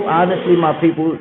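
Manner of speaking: usual speaking voice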